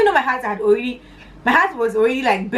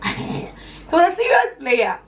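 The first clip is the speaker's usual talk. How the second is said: higher, playful mock emphasis after a laugh; hammed-up repeat, pitched up; mock dramatic; 9 semitones higher, slower than usual. Shown as a demonstration. Vlogger jokes to viewers about his brother, mock dramatic.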